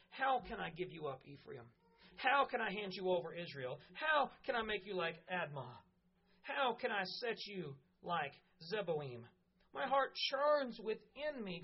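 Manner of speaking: pleading lines read with measured slowness; scripture reading. Acted. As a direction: let God's longing come through. Reads God's pleading words.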